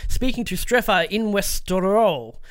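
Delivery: scripted games-news read. Acted. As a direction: read the story out like a presenter. Reads out a news story.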